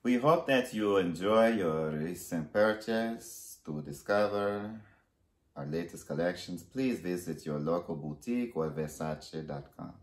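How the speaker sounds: put-on measured, amateur Italian accent; put-on Italian accent, carefully paced; Donatello, Italian accent. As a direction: read out the card in an attempted Italian accent. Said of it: "I hope I really did that accent correctly".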